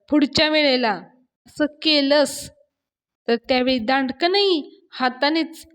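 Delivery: angry warning. Retold or imitated. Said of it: "अण्णा रागाने".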